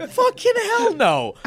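high, loud laughing refusal; shrieking hell no; emphatic no. Real, not acted. Refusing the cliff jump.

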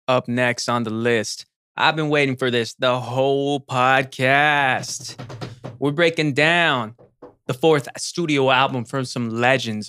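drawn-out podcast intro read; hyped announcer. Acted. Host introducing a rap group's album to listeners, hyped announcer. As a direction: build up the next album with stretched-out words.

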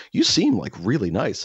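high, eager neighbor impression. Neighbor asking a question on the dog walk, gushing. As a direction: gush like the nosy neighbor. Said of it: "He goes".

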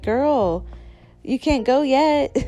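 mock scolding. Mom telling daughter to wait.

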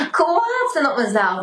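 said again while half laughing, half crying; laugh-crying through the repeat. Real, not acted.

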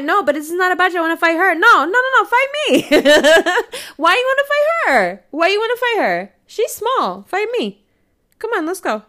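high, loud fight dare; loud, laughing fight taunt; shouted challenge. Retold or imitated. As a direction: yell it, daring someone to swing.

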